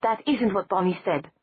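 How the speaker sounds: short and clipped; terse. Acted. Stefan answering Matt tersely, short and curt. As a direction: cut him off curtly. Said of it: "Stefan replied tersely".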